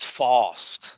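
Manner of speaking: mock Brooklyn accent, broad open vowel; horrible Brooklyn accent. Host mocking a man's vowels, Brooklyn accent. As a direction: say fast as "fawst", Brooklyn style. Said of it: "Brooklyn accent".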